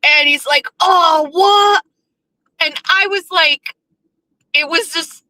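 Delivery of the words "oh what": high, loud, happy exclamation; a thrilled shout of surprise; delighted surprise. Retold or imitated. Savers worker getting free cheeseburgers, shouting in delight.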